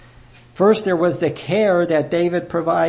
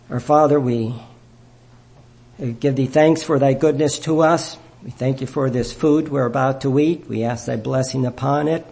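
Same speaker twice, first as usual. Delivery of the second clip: solemn family blessing. Real, not acted. Closing prayer and grace over food.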